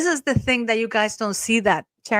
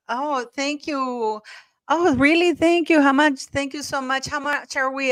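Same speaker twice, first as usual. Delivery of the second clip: excited thanks; 5 semitones higher than usual. Real, not acted. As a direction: gush over a surprise donation. Live donations arrive on stream.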